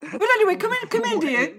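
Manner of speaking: high auntie voice; auntie, apologetic then welcoming. Acted. Auntie apologising and inviting them in, high character voice. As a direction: usher them in, pitched well up.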